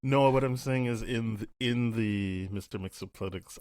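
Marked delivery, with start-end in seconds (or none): 1.6-3.6 "Mxyzptlk" sounded out slowly, syllable by syllable; stumbling slowly through "Mxyzptlk"; unsure name. Real, not acted. Podcaster unsure of the villain's name, sounding out "Mxyzptlk" slowly. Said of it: "I don't know how to pronounce".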